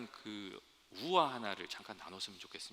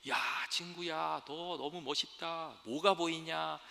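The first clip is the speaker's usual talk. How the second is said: mock yelling to a friend far above; calling up excitedly; 5 semitones higher than usual. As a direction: call up to the sky, stretching the words. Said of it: "막 소리를 질렀어요".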